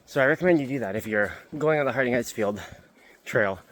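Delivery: talking out of breath on the climb; winded, words between breaths. Real, not acted. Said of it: "And yes, I am out of breath".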